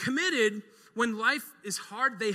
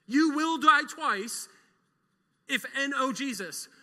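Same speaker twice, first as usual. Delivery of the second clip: very slow, louder and higher; slow warning; 7 semitones higher, 6 dB louder, slower than usual. Real, not acted. Preacher warning the congregation, very slow and loud. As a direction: draw out each word as a warning.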